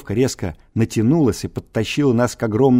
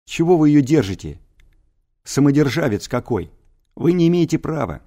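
indignant yelling; 5 semitones higher, 3 dB louder than usual. Acted. Boy yelling at captor.

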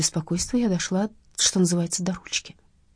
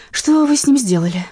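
mock tragic cry; 7 semitones higher, 7 dB louder than usual. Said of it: "воскликнула я с трагической интонацией".

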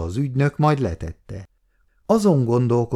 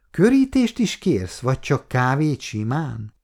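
coy teasing question, pitched up high; flirtatious; 4 semitones higher than usual. Acted. Kata teasing Péter over his coffee, flirtatious. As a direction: tease him with a sly lilt. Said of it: "kérdezte kacéran Kata".

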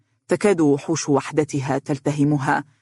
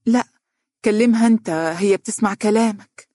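eager; 5 semitones higher than usual. Acted. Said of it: "قالت بلهفة".

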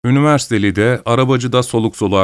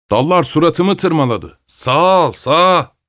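angry complaint; 6 semitones higher, slower than usual. Acted. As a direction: bark the order to steer right. Postacı arabacıya kızıyor. (yüksek sesle öfkeli şikâyet)

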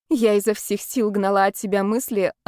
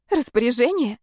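hopeful; 3 semitones higher than usual. Acted. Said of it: "обрадовалась я".

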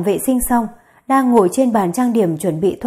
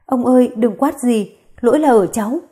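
sobbing; 2 semitones higher than usual. Acted. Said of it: "Tú Di nấc lên từng tiếng".

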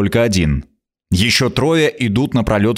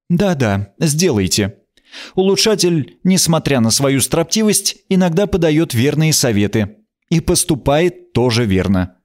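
a hint of a haughty queen, higher; lightly voiced wry queen; 5 semitones higher than usual.

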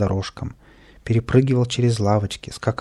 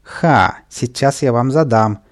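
threatening shout; 5 dB louder, slower than usual. Acted. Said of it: "крикнул Каприска".

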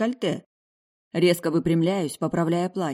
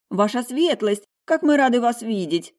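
higher, louder, gushing welcome; butter up the duke with a raised eager voice; fawning; 8 semitones higher, 5 dB louder than usual. Acted. Maître d' greeting the duke, fawning and higher. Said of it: "лебезит мужчина".

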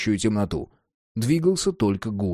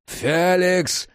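high, desperate name call; desperate yell; 6 semitones higher than usual. A narrator's reading. Jack helpless in the monster's grip, desperately calling. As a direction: cry out the name in desperation, volume contained. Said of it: "отчаянно заорал Джек".

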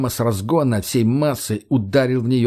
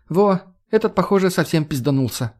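Margo's snark; 7 semitones higher than usual. Acted. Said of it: "прокомментировала его действия Марго".

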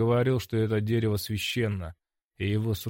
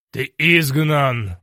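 loud, slow and heavy verdict; loud stern sentence; 4 semitones higher, 9 dB louder, much slower than usual. A narrator's reading. Dargon banishes the hero, slow and loud. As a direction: pronounce the banishment slowly and loud. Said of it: "раздался голос позади".

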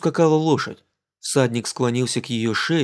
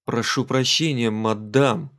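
stammering; slower than usual. Acted. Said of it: "запинаясь, ответил он".

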